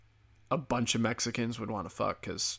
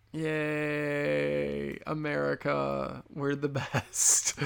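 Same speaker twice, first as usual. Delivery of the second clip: sarcastic cheer; 3 semitones higher, much slower than usual. Acted. Sarcastic cheer about slavery.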